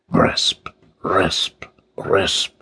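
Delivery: hushed "rasp", beat by beat; whispered rasping noise. A narrator's reading. Sound goes on as King finds no gun, whispered rasping. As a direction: whisper it like sawing on wood. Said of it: "the rasping sound stopped".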